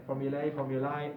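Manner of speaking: first formulae as FOR-mu-lay, second as FOR-mu-lie; two formulae. Shown as a demonstration. Teacher contrasts both formulae. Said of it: "the same, yeah?".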